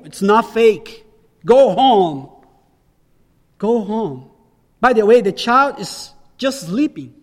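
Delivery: a hint of Jesus dismissing the mourners; paraphrasing Jesus. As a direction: send the fake mourners home firmly. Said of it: "what Jesus is saying here is".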